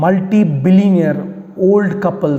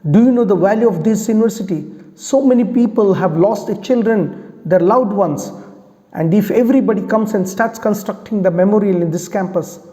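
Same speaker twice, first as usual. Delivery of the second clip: mildly acted outrage, pressing on; retold indignant scolding; enraged; 3 semitones higher than usual. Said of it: "gets enraged and says".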